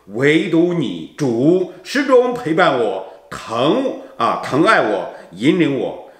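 earnest, devotional prayer-poem recital. Acted. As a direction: read it like a heartfelt hymn to God. Reads prayer poem part six.

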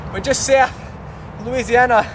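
out of breath; talking between breaths. Real, not acted. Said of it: "I'm out of breath".

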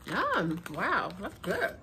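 chewing while talking; finishing a bite; mouth partly full. Real, not acted. Seen 1: Puts a puff in her mouth at -3; chewing into early words.

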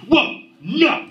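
high, slow mock-casual dad; hammed-up chill father; mock permissive dad. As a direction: play it cool as the dad walking in. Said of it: "I'm gonna be like".

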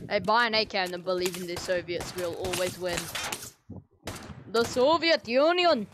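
amateur mock-Russian accent; attempted Russian accent. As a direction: put on a rough Russian accent, like a Soviet rallying comrades. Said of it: "how to do a Russian accent".

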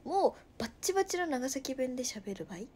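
playful, insistent Nagasaki dialect. Shown as a demonstration. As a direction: lay on the Nagasaki dialect, pitch jumping up. (わざと強めの長崎弁)

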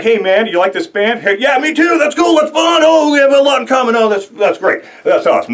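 high, shouted, over-eager small talk with a stranger; mock-thrilled stranger at a show; excited fan chat. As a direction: play a gushing concert buddy. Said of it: "and being like".

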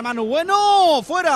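sudden high, loud call of the chance; excited near miss. Real, not acted. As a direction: rise to the shot then drop.

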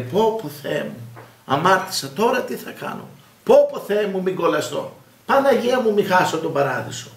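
fretful, wailing parody of a guilt-ridden believer; mock anxious sinner. Priest mocking a believer panicking over his sins, whiny.

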